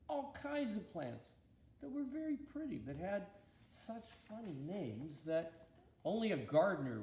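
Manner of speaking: put-on lively storybook read for kids; story reading to children. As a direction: tell it like a Bible story for little ones on the carpet. Reads Bible story to children.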